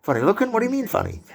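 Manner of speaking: hammed-up gangster demanding an answer; Joe Pesci confronting. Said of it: "and Joe Pesci's like".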